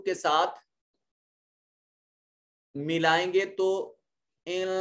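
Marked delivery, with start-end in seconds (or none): 4.5-4.7 "ان" with the noon hidden in a nasal hum. Shown as a demonstration. Teacher showing tongue near the palate, "ان" with nasal hidden noon. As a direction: say "ان" without the tongue tip reaching the teeth, humming the n. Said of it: "کی آواز نکلے گی".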